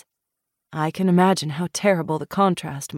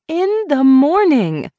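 firm slow shout; 10 semitones higher, 8 dB louder, slower than usual. Acted. Sending drunk Julian away.

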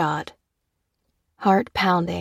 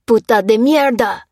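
louder, higher furious roar; roaring in pain; 4 semitones higher, 8 dB louder than usual. A narrator's reading. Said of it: "he roared".

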